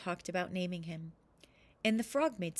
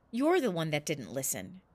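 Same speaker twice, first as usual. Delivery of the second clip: mild cross retort; 3 semitones lower, 3 dB louder than usual. Acted. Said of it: "He spoke crossly".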